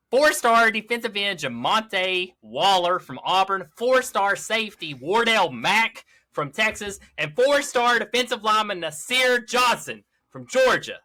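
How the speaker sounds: high, drawn-out announcer-style names; high-energy emphatic reading. Real, not acted. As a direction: punch each name with big energy, stretching it out. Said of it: "like that energy reading those names".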